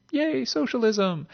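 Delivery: high, slow mock cheer; sarcastic cheer. Essayist mocking praise of public works, sarcastic mock cheer. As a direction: cheer it with a big ironic grin. Sarcastic aside on New Deal.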